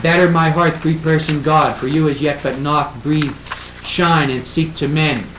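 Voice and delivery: emphatic verse reading, verbs set apart; broken-up verse recitation. Shown as a demonstration. Lecturer shows how the line is broken up, reciting. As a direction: recite it with "knock, breathe, shine" separated.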